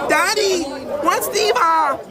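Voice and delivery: put-on high, innocent kid asking; child voice. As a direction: play a small child asking daddy.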